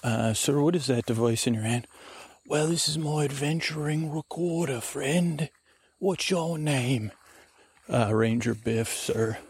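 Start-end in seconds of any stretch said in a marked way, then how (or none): 2.4-7.1 friendly adventurer, lightly put on; slightly raised, lilting oddball voice; the speaker's character. Adventurer showing the ranger his recorder, lightly put-on voice.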